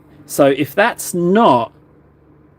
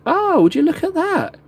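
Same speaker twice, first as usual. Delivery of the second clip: delighted self-praise; 12 semitones higher than usual. Real, not acted. Proud of a clean highlight.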